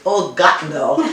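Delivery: put-on German-accented father exclaiming "Oh, God, no."; father's German accent. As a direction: mimic the German dad's exasperated groan. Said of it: "It was always".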